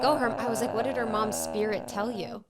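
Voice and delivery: high, eager, hammed-up curiosity; playfully mimicking her own excited self; eager mock excitement. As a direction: gush at the psychic like a starstruck fan. Excited retelling of own eager question.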